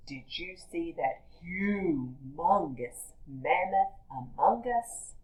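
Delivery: a hint of a booming giant. A child voicing a giant to mom, lightly voiced giant. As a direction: talk like a giant, slow and big. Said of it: "the way giants must talk".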